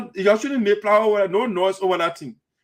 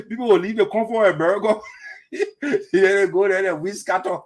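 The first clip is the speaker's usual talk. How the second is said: laughing. Real, not acted. Laughing at the stranded delegation.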